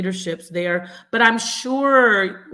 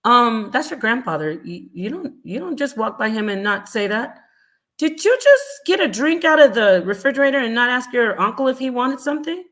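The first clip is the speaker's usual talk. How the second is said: a mother's sharp rebuke, hammed up; mother scolding child for disrespecting uncle, sharp rebuke; scolding parent; 3 semitones higher, 4 dB louder than usual. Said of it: "people don't say".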